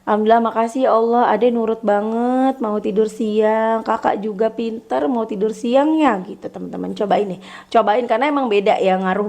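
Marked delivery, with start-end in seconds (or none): 0.0-6.2 praising parent. Shown as a demonstration. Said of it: "sambil ngomong ke anak".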